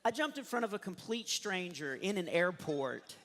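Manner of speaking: ordinary delivery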